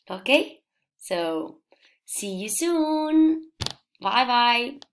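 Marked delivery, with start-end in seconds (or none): 2.0-4.8 higher, sing-song farewell to the class; slow, bright see you soon; cheery goodbye. Real, not acted. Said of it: "cheerful goodbye to pupils".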